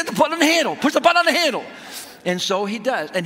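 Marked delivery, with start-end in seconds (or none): 0.0-0.7 high, fast, strained yell; re-enacted frantic shout. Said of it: "I'm shouting, screaming, I'm in misery". 0.7-1.6 high, loud, strained yell; re-enacted screaming order. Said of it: "I'm shouting, screaming, I'm in misery".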